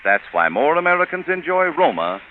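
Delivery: upbeat, polished sponsor pitch; radio ad read. Acted. Radio host pitching Roma Port to the listeners, in a polished ad read. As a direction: sell the port like a warm old-time radio announcer. Host turns to wine commercial.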